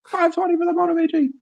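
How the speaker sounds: high, fast hype announcer call; fighting game announcer. Acted. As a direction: boom out the bid like an arena announcer. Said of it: "do you have a good announcer voice".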